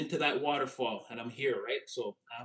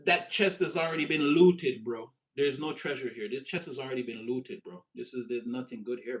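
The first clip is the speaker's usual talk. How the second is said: put-on English accent. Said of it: "I'm saying it in the English accent".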